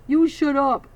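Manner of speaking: loud, sharp snap; snapped. Acted. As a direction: cut him off hard. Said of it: "Bull snapped".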